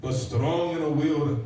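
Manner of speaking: slow, grand poetic recitation; hammed-up heroic verse reading; Alfred Lord Tennyson. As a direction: declaim it slowly, pausing between phrases. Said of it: "It's my impression of Rudyard, or, uh, Alfred Lord Tennyson".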